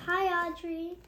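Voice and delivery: cheerful holler back to Audrey. Acted. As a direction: call out across the water. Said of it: "hollered back".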